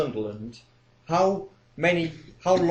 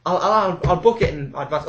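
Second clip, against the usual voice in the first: put-on elderly woman caller; 2 semitones higher, 4 dB louder than usual. Old caller refusing to ask the neighbours, indignant. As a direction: protest like a proud pensioner. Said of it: "Like, uh".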